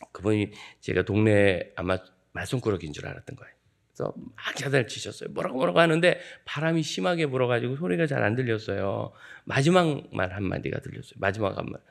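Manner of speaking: usual speaking voice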